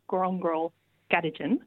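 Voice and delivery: "Grongrol Gadijin" with each word stressed on its first syllable. Shown as a demonstration. Linguist naming the university centre, "Grongrol Gadijin" stressed at the start of each word. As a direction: hit "Gron" and "Ga" in "Grongrol Gadijin". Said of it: "with the emphasis on the first syllable".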